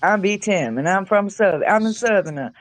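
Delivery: lightly put-on Southern accent, rambling on; mock southern B Tim. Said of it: "it's always".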